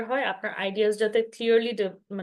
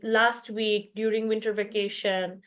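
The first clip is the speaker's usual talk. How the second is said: slow model phrases; much slower than usual. Shown as a demonstration. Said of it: "এই ধরনের time intro ফ্রেজগুলো".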